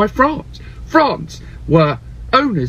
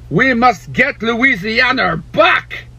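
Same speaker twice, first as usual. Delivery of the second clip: Napoleon voice; 4 semitones higher, slower than usual. Retold or imitated. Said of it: "he said".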